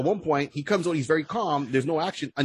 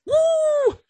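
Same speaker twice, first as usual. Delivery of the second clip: high whooping cheer; excited whoop; 6 dB louder than usual. Real, not acted. Excited host whooping about the afterlife. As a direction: let out a big woo.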